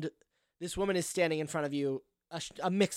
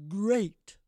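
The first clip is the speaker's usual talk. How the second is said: lightly voiced stately woman; a hint of drawn-out grandeur; stately townswoman; 6 semitones higher, 5 dB louder than usual. Townswoman answering a worried stranger, lightly stately.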